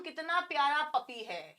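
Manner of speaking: slow, soft admiring coo; cooing over puppy. Retold or imitated. Teacher shows how people admire a puppy, slow soft coo. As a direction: gush softly over a cute puppy. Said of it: "बोलते हैं ना हम".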